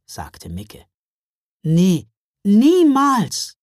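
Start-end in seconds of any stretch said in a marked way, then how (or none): 1.6-3.6 slow, loud solemn vow; solemn promise. A narrator's reading. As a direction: promise it slowly, together. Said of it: "versprachen Jonas und Mila".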